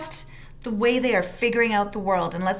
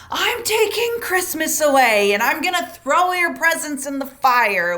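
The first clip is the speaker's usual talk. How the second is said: higher, louder exasperated parent threat; mock angry threat; 5 semitones higher, 5 dB louder than usual. Parent threatening kids in anger, mock furious threat. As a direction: threaten like an overheated parent, half in jest. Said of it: "we say things like".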